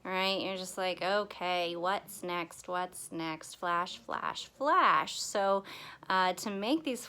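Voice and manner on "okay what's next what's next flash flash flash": put-on low, monotonous bored kid; acted "not very exciting" routine; mock boredom. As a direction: drone it as if unexcited. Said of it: "not very exciting".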